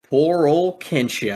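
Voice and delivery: mock him with a grin; Vamp taunting. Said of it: "he goes, laughs".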